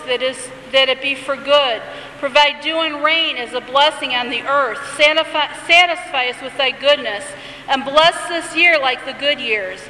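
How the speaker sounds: lightly intoned liturgical reading; a hint of solemn recitation; prayer reading. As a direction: read it as a gentle prayer. Reads the blessing of the years.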